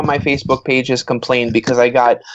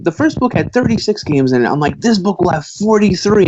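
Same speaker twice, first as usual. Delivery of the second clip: retold eager pitch; 6 semitones higher than usual. Retelling his excited sequel pitch.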